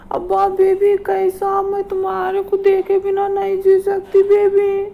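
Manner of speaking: mock-tearful lovesick whimper; hammed-up crying. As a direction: sob it out like a melodramatic girlfriend. Lovers' dramatic lockdown phone call.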